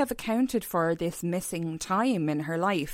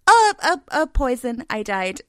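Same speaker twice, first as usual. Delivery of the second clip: hammed-up surprise; 6 semitones higher, 7 dB louder than usual. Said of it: "spy joke continued".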